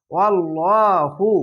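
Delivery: slow "আল্লাহু" with a heavy, rounded ল্লা; chanted "আল্লাহু", full dark lam, long vowel; thick Allah lam. Shown as a demonstration. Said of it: "আল্লাহ লেখাটি মোটা করা হবে".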